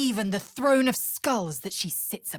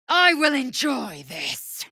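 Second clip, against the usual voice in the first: gleeful battle shout; 9 semitones higher, 5 dB louder than usual. Acted. Battle cry in combat.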